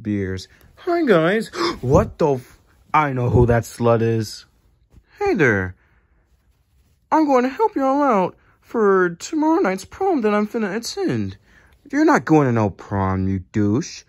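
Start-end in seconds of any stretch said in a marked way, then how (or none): 5.2-11.4 higher, eager put-on cartoon voice; lightly voiced goofy newcomer offering help. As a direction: pitch it up like a goofy eager helper. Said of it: "I'm Goofy".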